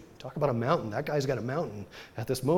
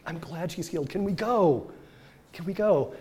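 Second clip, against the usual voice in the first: impatient plea; 6 semitones higher than usual. Retold or imitated. Impatient father pressing Jesus.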